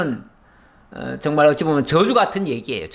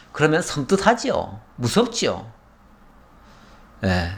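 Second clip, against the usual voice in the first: ordinary delivery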